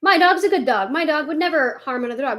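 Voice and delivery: lightly voiced smug owner; mocking smug dog owner. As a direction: mimic a self-satisfied owner who's sure of their dog. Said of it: "but people think".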